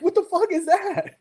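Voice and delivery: very high, incredulous squeak; imitated bafflement. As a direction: imitate someone utterly stumped by a strange name. Retold artists baffled by unknown pigment.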